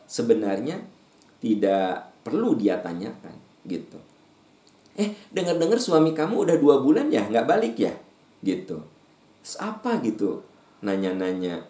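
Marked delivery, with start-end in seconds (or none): 4.9-8.0 lightly raised prying voice; a hint of the nosy neighbour; mild busybody. Preacher mimics gossip asking about a husband, lightly raised.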